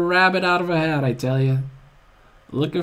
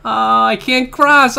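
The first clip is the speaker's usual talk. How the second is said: whine; 8 semitones higher, 9 dB louder, slower than usual. Real, not acted. Repeated whine.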